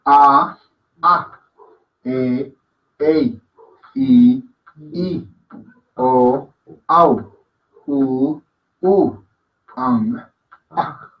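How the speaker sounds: each vowel separate, "A, A, E, Ei" in long-short pairs; vowel recitation. Shown as a demonstration. Teacher drilling the vowels, measured one-by-one recitation. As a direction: recite evenly with pauses, ending on guttural "Ang". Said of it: "Y la voy pronunciando".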